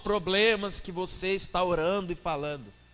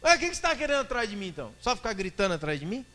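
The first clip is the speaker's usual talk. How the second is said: fast retort; 2 semitones higher, faster than usual. Acted. Jesus answers the protester.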